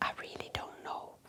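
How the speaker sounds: very soft, hushed, breathy, barely voiced whisper. Answering another speaker in a private talk, whispering. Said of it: "And I notice you're whispering".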